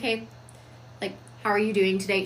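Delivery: calm commanding hello. Shown as a demonstration. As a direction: say it grounded and in charge. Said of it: "She talks down here because it's a much more commanding tone".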